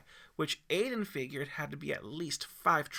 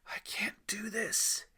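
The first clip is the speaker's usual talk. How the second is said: slow, breathy whisper of fear; scared whisper; 6 semitones higher, slower than usual. Acted. Boy at the edge whispering to himself, scared. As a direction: whisper it, losing nerve. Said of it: "Aiden whispered".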